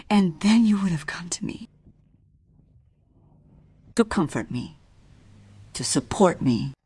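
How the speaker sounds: hushed bitter whisper. Acted. Maris whispers her realization to Alf. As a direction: whisper it as the truth dawns.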